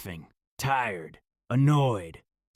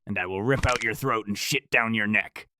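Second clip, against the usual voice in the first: calm and certain; 5 dB louder than usual. Acted. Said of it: "calm and certain".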